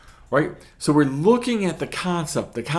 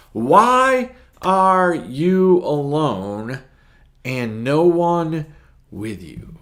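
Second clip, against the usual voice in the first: trembling priest; 3 semitones higher, 7 dB louder, much slower than usual. Acted. Priest voiced in story.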